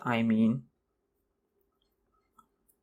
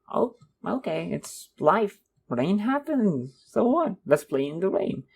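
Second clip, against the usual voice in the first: cheery positive voice; 5 semitones higher than usual. Retold or imitated. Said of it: "and like".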